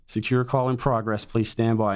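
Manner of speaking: lightly imitated recorded voice, repeated evenly; automated American female voice. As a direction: repeat the loop like a machine on hold. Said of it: "this American voice in your ear saying".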